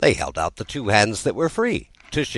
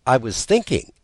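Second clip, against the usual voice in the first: polite; 7 semitones higher, 4 dB louder than usual. Acted. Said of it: "Alice said very politely".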